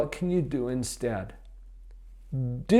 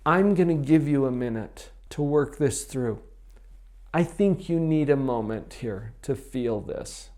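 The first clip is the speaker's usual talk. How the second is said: calm, patient voice. Shown as a demonstration. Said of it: "So you buy some time".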